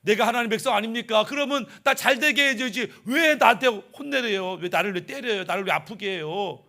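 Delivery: acted grumbling protest, sinking toward the end; resentful complaint. God's people protest being scolded and hurt, resentful. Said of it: "이러면서 하나님께 원망, 불평".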